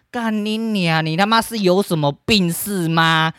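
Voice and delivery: retold scolding. Scolding his crying daughter over the beer, exasperated outburst. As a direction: lay into her, exasperated and slow.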